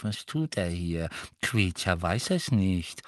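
elf grumbling to himself, rising into a wail; hostile muttering. A narrator's reading. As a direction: mutter on as if unheard, then lament. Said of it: "beäugte sie alle feindselig und murmelte weiter". (feindseliges Gemurmel eines Hauselfen)

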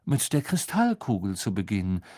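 lightly voiced airy prophetess; a hint of a misty, solemn fortune teller; mystic seer. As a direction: float the words like a dreamy seer. Trelawney voiced by narrator.

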